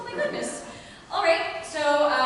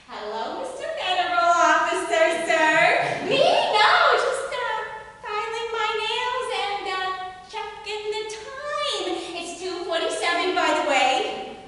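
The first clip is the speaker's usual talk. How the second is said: feigned innocence; 4 semitones higher than usual. Acted. Housewife caught by a federal officer, feigning innocence. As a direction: play innocent, jumping high on the excuses.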